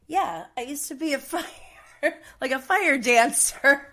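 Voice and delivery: quoting Tony, laughing through the words. Retold or imitated. Telling listeners about Tony, laughing while quoting him. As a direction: giggle through the fire dancer line.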